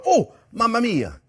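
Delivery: high, drawn-out mamma mia of dismay; a slow, sung-out oh-no moment; dismayed exclamation. Real, not acted. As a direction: caught out by a forgotten ingredient. Realizes she forgot the almonds.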